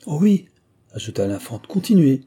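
high, loud eager begging; eager plea. Acted. Princess urging the monk to continue, eager and high. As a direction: beg him to go on.

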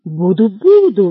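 hungry hero eagerly accepts the sausages; excited cry. Acted. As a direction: blurt it out eagerly. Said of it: "взволнованно вскричал Лафайет".

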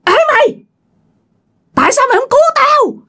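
high, eerie ghostly wail; a drowned ghost calling out accusingly. Acted. Ghost of the drowned woman accusing the listener, high eerie wail. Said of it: "nghe một giọng nói".

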